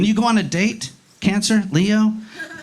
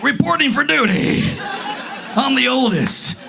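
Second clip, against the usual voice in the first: higher-pitched mock Captain America eagerness; gung-ho eldest child; 4 semitones higher than usual. Oldest child reporting for duty to the family, gung-ho. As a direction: report in like an overeager hero. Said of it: "The oldest ones are always like".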